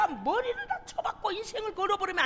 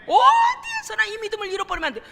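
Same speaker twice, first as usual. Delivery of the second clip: louder, higher warning; urgent exhortation; 4 semitones higher, 5 dB louder than usual. Real, not acted. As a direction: press the point home loudly. Preacher exhorting the congregation.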